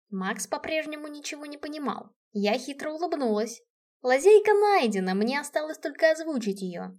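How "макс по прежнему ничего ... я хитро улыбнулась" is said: ordinary delivery, nothing marked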